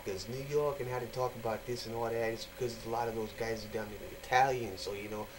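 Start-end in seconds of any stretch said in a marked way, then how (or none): 0.3-2.1 demonstrated New York accent. Shown as a demonstration. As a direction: put on an Italian-American New York accent. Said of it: "they got that, that New York and, uh, accent".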